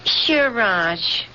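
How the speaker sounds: wife humouring a frightened husband with sarcasm; sarcastic tone. Acted. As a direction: brush him off with polite disbelief. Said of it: "get that tone out of your voice".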